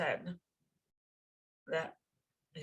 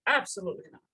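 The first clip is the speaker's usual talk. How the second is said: emphatic refusal; 3 semitones higher, 4 dB louder, faster than usual. Retold or imitated. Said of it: "And the Rebbe said".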